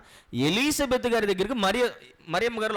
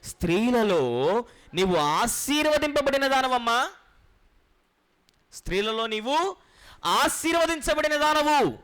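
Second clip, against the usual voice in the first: a raised, slow blessing, higher on the last words; loud blessing; 4 semitones higher than usual. Acted. Elisabeth blesses Mary aloud, a slow, raised proclamation. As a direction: proclaim it aloud, filled with joy. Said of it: "ఆమె బిగ్గరగా చెప్తున్న".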